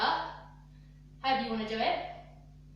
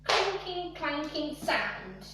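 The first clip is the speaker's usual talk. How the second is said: Clinking pitched up, clanking sound stretched slowly; drawn-out cue; 3 semitones higher, much slower than usual. Shown as a demonstration. Dance teacher calling the cue again, slow. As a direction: stretch it out to the beat. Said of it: "That's nice and sharp".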